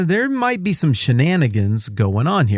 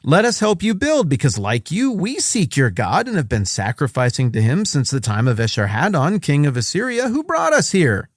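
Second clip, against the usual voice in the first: put-on wholesome kid voice; 4 semitones higher than usual. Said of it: "that paraphrase is mine".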